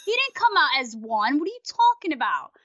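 retold disbelief, pitch swooping up; incredulous retort. Host replays arguing back at a wrong commentator, incredulous. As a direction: dispute it like you can't believe it. Retelling her reaction to commentator's error.

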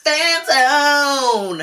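high excited call of the title; excited shout. Acted. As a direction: cheer the segment name.

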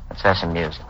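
low, soft suggestion; soft coaxing. Acted. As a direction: murmur it gently. Quiet coaxing before insisting.

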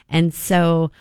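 hoarse voice. Real, not acted. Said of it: "I have no voice after all this talking".

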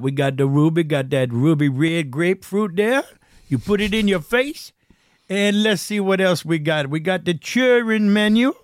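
a hint of a folksy waiter reading the menu; playful menu read like a Louisiana host; lightly voiced Southern host. Reads menu in character voice.

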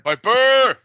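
high, loud drawn-out shout of a name; imitated crowd yell. Co-host copying the fan who yells Piper's name, loud shout. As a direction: holler it like a rowdy fan. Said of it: "the person who yells out Piper's name".

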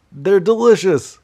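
high, loud, slow, put-on swoon; a hammed-up squeal about mom's cookies; gushing delight. Raving about mom's Christmas cookies.

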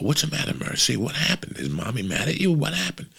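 a hint of a worried dad consoling his daughter; concerned father. Worried father asking crying daughter.

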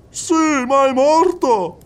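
high, loud, slowed exclamation; startled reply. Acted. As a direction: soldier blurting back at the medium, startled and loud. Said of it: "rispose il soldato".

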